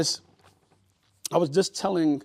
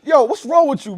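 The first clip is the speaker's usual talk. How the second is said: louder, higher shocked outburst; 10 semitones higher, 11 dB louder than usual. Real, not acted. Cohost appalled by the story, loud and incredulous. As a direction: blurt it out appalled.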